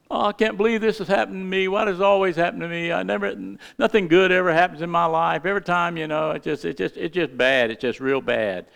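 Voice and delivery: mock the sulky churchgoer; whiny complainer. Preacher mimicking a believer who grumbles about trials.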